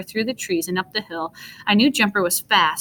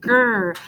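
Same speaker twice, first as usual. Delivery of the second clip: growl; 2 semitones higher than usual. A narrator's reading. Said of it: "growling like a snow monster".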